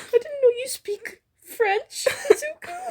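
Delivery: high, hammed-up teasing; mock teasing voice.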